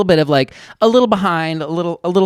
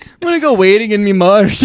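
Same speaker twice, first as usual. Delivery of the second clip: a hint of a rough ogre accent; playful mock ogre; lightly voiced Shrek; 2 semitones higher, 4 dB louder than usual. Still auditioning as Shrek for her cohost, a light ogre voice. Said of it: "Shrek voice continues".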